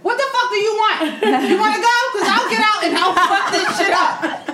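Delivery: retold road rage. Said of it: "Brit's real rage".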